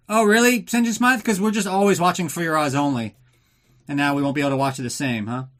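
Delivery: high, loud sneering retort; mock a snarky listener, sneering; sarcastic mock voice. Mocking a listener's sarcastic reply.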